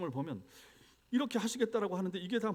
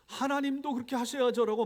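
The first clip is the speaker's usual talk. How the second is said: higher, louder mock protest; indignant demand; 8 semitones higher, 7 dB louder than usual. Preacher voicing a believer's protest to God, loud indignant. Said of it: "말할 수 있는가".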